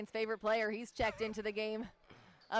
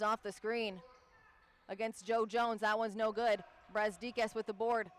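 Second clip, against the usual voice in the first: brisk courtside call; live play-by-play. Acted. Play-by-play announcer calling the game for viewers. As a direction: call the action as it happens.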